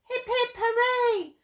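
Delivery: high, happy cheer; hooted cheer. A narrator's reading. Duckbills cheering Drip's victory, high happy hooting. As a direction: hoot a triumphant hooray. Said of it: "They hooted".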